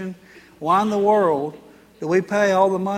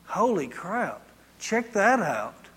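surprised exclaim; 3 dB quieter, much slower than usual. Retold or imitated. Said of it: "my exact words".

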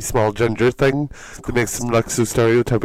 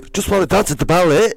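mock Scottish Billy; 7 semitones higher, 4 dB louder than usual. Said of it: "What was that line?".

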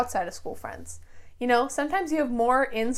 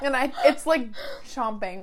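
mouth full. Real, not acted. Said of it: "Hold on, I'm chewing".

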